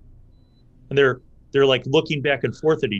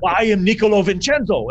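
loud, high, grand self-introduction; a noble boasting his name to his double; proud announcement; 8 semitones higher, 6 dB louder than usual. Acted. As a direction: declare the name with a flourish. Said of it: "they're like".

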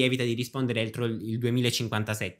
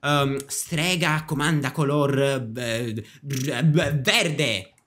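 game call; much slower than usual. Acted. Witch calling out game command.

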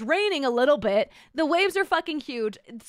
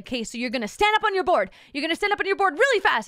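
surf instructor; 4 semitones higher, 3 dB louder, faster than usual. Retold or imitated. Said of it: "He's like".

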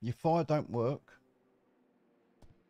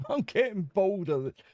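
laughing through the repeated complaint; a laughing, amused repeat; 4 semitones higher than usual. Real, not acted. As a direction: chuckle it out.

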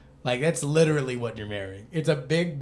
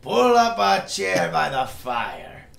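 Hearthstone bartender voice; slower than usual. Pretend. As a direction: greet the regulars like a fantasy innkeeper. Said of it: "my Hearthstone bartender voice".

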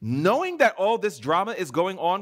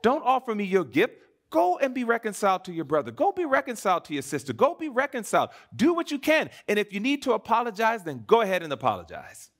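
God's urgent command; 5 semitones higher than usual. Acted. Preacher voicing God urging the congregation to reconcile, urgent. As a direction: preach it as God pleading, rising. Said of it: "And so God is saying".

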